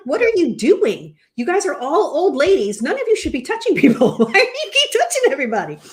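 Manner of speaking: hammed-up pleading reprimand; mock exasperated scolding. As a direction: scold them in half-laughing disbelief. Acting out scolding mom and friends.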